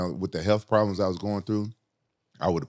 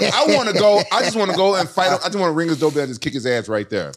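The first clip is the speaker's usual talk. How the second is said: retold heated anger; 7 semitones higher, 4 dB louder than usual. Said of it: "I'm so fucking heated".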